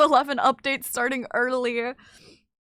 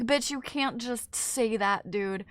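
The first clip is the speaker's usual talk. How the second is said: mock scolding; 5 dB quieter, slower than usual. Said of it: "And you're like".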